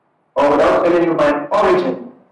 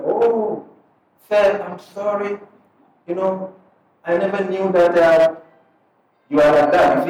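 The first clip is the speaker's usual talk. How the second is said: higher, apologetic "Oh, sir, I'm sorry"; sheepish apology; 4 semitones higher than usual. Retold or imitated. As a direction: sound like someone embarrassed at misjudging. People apologising after learning purpose.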